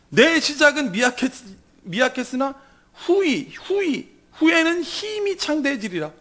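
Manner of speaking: high, halting mock proclamation; sneering. Job's friend quoting false comfort, sarcastic. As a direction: break up the promise, pitched high. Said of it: "욥의 친구들이 비아냥거린 말이에요".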